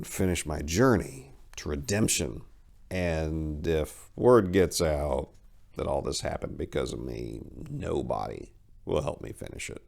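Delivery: low, soft, slow solemn voice; somber refusal. Acted. Cyril refusing to help, solemn and quiet. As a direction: say it gravely and quietly.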